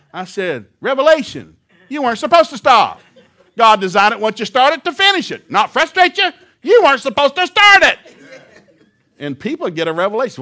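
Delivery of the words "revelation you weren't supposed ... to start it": 1 shouted retort. Retold or imitated. Preacher shouting back at kids.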